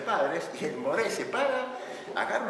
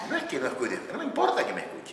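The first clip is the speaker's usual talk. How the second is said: laughing mock complaint; 2 semitones higher, faster than usual. Complaining spouse's quote.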